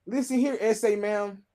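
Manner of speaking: hammed-up Southern country voice; country accent. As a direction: play a riled-up country man. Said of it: "he was country. I don't know why I put an accent on him".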